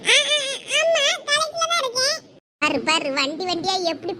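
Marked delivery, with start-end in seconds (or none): 0.1-2.2 a student caught skipping college, stammering to the neighbour; flustered. Acted. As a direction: caught off guard, stammering a lie. Caught lying on phone to neighbour.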